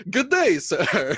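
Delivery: put-on slow, laughing old-timey gentleman; slow mock gentleman. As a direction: tip the hat with a laugh.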